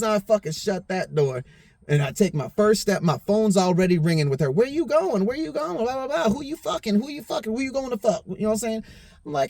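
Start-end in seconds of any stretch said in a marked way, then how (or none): 4.5-8.2 mimicking nagging girlfriend.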